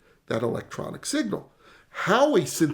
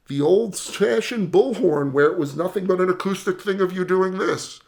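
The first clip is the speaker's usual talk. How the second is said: hands as a bullhorn; 3 semitones higher, 5 dB louder than usual. Shown as a demonstration. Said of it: "You probably hear my voice change".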